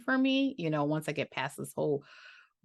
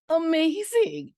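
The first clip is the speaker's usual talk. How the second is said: high, slow, drawn-out gush; much higher delighted gush; 10 semitones higher, 6 dB louder, slower than usual. Real, not acted. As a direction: swoon over the word. Gushing over Liz's channel.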